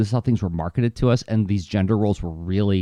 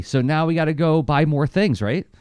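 normal talking voice

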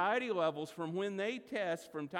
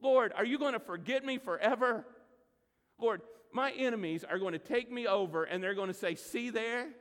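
louder paraphrase of the psalmist's plea; 4 dB louder than usual. Retold or imitated. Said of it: "You hear the psalmist".

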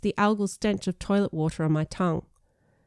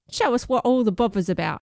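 slightly cockney little worm, a bit higher; 4 semitones higher than usual. Acted. Biscuit worm egging the friend on, cockney worm voice. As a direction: play a cheeky worm with a light cockney twang. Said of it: "said a slightly cockney worm voice".

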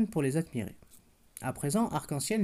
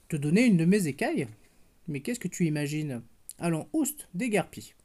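disdainful. Acted. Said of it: "s'exclama Arc-en-Ciel avec dédain".

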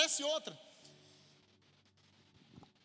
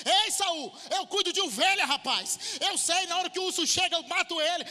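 raised, louder, boasting to the king; bold young David to Saul; 4 semitones higher, 3 dB louder than usual. Pretend. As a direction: speak up like a fearless shepherd boy. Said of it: "você vai falar assim, ó". (Davi confiante enfrentando Saul, mais alto e ousado)

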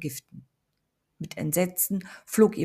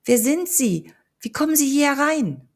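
loud, high frightened demand; shaking with fear at the stranger; fearful trembling voice; 8 semitones higher, 8 dB louder than usual. A narrator's reading. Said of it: "ihre Stimme vibrierte ängstlich".

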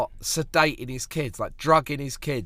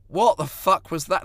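higher, louder self-scolding; exasperated inner voice; 5 semitones higher, 5 dB louder than usual. Retold or imitated. Comic scolds his own brain mid-gig, exasperated. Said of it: "talking to the man in the chair in my brain".

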